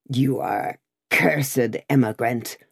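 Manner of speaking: a touch of a furious farrier, lightly voiced; rough farrier denouncing the rider, mild fury; furious cry. A narrator's reading. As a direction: cry it out at him in anger. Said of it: "cried a farrier, making at him in a furious manner".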